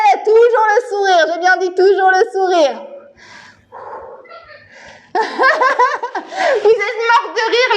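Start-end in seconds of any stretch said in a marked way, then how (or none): 5.1-7.7 laughing. Real, not acted. Coach laughing at class.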